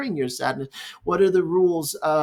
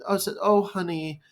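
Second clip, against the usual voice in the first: imitated sympathy. Parent to a sad child, mild mock sympathy. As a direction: act a parent's brief pity, softening on honey. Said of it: "has some empathy and sympathy".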